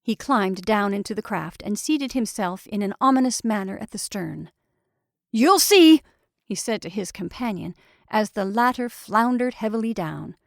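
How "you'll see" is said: loud, high warning; exasperated threat. A narrator's reading. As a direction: warn them angrily, voice raised. Repeated threat in a quarrel.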